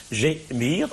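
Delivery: "gémir" separated as gé, mir; divided into syllables. Shown as a demonstration. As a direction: count out both syllables of "gémir". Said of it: "on divise les vers ici en syllabes".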